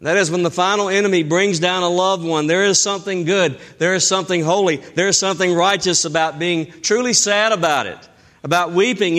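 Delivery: ordinary talk, nothing marked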